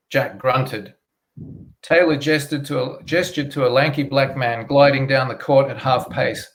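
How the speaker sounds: steady, measured read of a crime novel; story narration. A narrator's reading.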